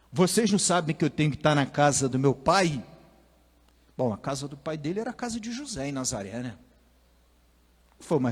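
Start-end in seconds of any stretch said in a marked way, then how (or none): 0.1-2.8 loud, cutting answer; sharp retort. Retold or imitated. Young Jesus answers his worried parents with a loud sharp retort. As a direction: snap back like a cheeky twelve-year-old. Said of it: "ó que resposta atravessada".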